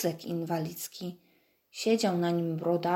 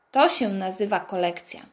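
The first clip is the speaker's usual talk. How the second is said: admiring exclamation; 4 dB louder than usual. Acted. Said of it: "wykrzyknąłem z podziwem".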